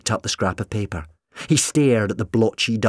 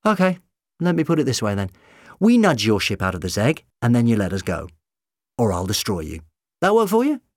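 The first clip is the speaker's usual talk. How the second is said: doctor voice, threatening; 3 semitones higher, 4 dB louder, faster than usual. Acted.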